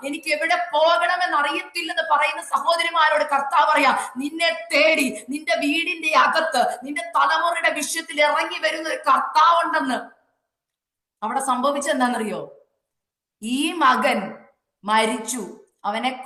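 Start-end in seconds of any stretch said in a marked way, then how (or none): 0.1-10.2 high-pitched, urgent sermon delivery; insistent revival preacher; fervent preaching. Real, not acted. Preaches at full force.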